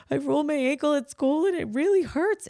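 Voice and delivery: put-on high, teary little girl; lightly voiced crying daughter; child voice. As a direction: play the hurt child, pitched high.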